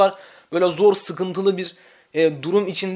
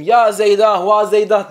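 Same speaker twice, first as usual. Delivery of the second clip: mild lament call; 6 dB louder than usual. Shown as a demonstration. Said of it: "Mesela Zeyd ölmüş diyelim".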